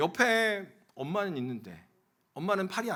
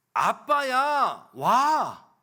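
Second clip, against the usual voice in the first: put-on child's joyful cry; 7 semitones higher, 7 dB louder, much slower than usual. Child answering dad's call.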